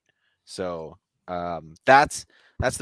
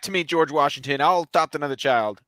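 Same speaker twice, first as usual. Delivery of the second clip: mock scolding wife; 4 semitones higher, 5 dB louder than usual. Martha scolding George, acted.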